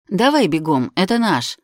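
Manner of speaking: loud, hurried urging; urgent call. Acted. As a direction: call out to hurry her. Urging a run for the bus.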